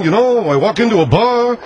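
lightly done comedian delivery, barely shifted; Jackie Mason. Retold or imitated. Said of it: "this is Jackie Mason".

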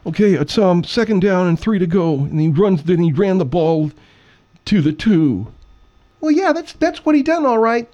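high, loud sportscaster voice calling the down; hammed-up high-school football caller; play-by-play announcer. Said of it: "Now, who's the play-by-play guy?".

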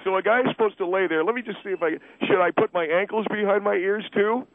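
indignant disbelief. Acted. Husband challenging callers who say it's normal, indignant.

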